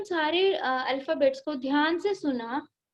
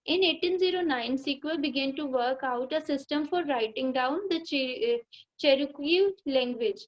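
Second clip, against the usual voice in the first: slow, careful reading aloud to a class; teacher reading the lesson line by line; slow textbook reading; much slower than usual. Shown as a demonstration. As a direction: read each word out slowly for the pupils.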